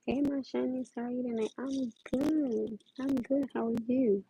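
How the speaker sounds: sweet high fairy tale princess voice; lightly voiced sweet princess greeting. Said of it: "Princess Voice".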